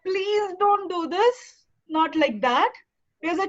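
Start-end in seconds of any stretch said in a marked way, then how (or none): 0.0-1.4 slow, pleading plea. Shown as a demonstration. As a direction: beg weakly and slowly. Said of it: "You are not like".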